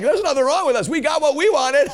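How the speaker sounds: loud, high, imitated defiant reply; exultant retort. Preacher voices deaf believers refusing healing, exultant. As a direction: shout it as their triumphant answer.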